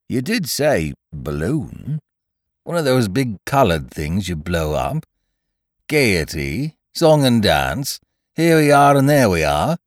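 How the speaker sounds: lightly voiced Eeyore. A narrator's reading. Eeyore questioning Piglet about the balloon, incredulous.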